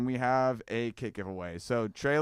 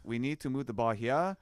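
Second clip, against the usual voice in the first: put-on German accent; 2 semitones higher than usual. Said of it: "I'm trying to do my German accent".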